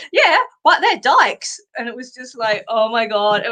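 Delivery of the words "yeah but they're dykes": higher, slower, a light hint of a stubborn child; insistent little kid. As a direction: mildly imitate a child repeating himself. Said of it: "Harley pipes up and says".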